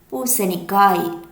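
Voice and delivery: பூசணிக்காய் said slowly, syllable by syllable; slow clear naming. Shown as a demonstration. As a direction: spell out பூசணிக்காய் slowly for the kids. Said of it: "என்ன காய்?". (பூசணிக்காய் மெதுவாக தெளிவாக)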